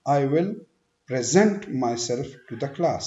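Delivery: slow demo, stress the end of present; stress on second syllable. Shown as a demonstration. Teacher shows present as a verb, second-syllable stress. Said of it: "second पे stress देना है".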